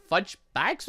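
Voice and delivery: ordinary talk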